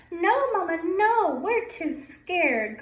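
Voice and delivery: high, loud, pleading no; two ducklings beg Mama to stay, high and loud; scared ducklings crying. Acted. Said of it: "cried Puddle".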